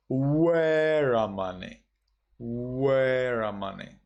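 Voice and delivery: Weramani begun on a round W; Weramani, W not V; Burmese W. Shown as a demonstration. Teacher giving the Burmese reading, Weramani with W. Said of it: "in Myanmar becomes".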